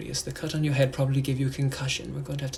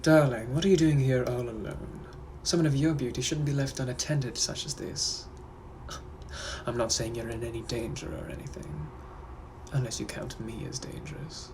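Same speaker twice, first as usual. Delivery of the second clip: British gentleman; 2 semitones lower than usual. Acted. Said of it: "I'm also a British gentleman from the eighteen hundreds".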